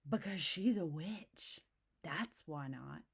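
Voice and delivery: slow, hushed spooky telling; spooky cub voice. Acted. Cub warns Mama, slow and spooky. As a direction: drag it out like a ghost story.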